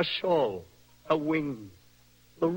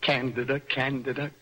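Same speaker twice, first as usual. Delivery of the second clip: dreamy repetition. Acted. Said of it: "Only to repeat your name a thousand times".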